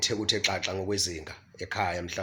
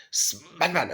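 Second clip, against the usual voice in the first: raised voice, pitched high; calling out; 6 semitones higher than usual. Acted. Parent calling a child who won't listen, raised voice calling out. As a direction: call someone by name who isn't responding. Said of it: "uqinisa khona iphimbo ... umemeze".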